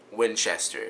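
"Winchester" said out as Win-chess-ter; teaching pronunciation. Shown as a demonstration. Vlogger telling himself to say it with him, teaching pronunciation. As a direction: model "Winchester" clearly, with a full "chess". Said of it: "Say it with me".

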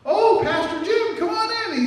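loud, high, drawn-out friendly biker greeting; sudden hearty welcome. Retold or imitated. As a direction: switch from threat to big welcome.

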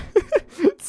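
high-pitched giggle; squeaky, high giggle; high laugh. Real, not acted. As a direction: burst into a high little laugh. Reacting to low life in game.

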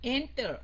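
Enter with weight on EN; teacher demo: press the first syllable of Enter; stress on ENTER. Shown as a demonstration. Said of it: "Mình nhấn âm đầu phải không?".

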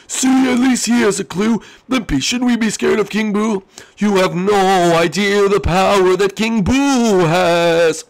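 high, half-sorry little voice; high squeaky character voice. Acted. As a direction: apologise in a squeaky voice.

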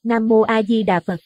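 high, loud desperate prayer; terrified tearful prayer. A narrator's reading. Wife prays to all directions in terror, high and loud. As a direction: pray in panic. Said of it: "vừa khóc lóc miệng vừa lẩm bẩm".

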